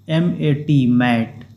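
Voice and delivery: letters then the word मैट, slow and careful; spelling out. Shown as a demonstration. Teacher spells the word for students, slow and careful. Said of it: "इसका उच्चारण होगा मैट".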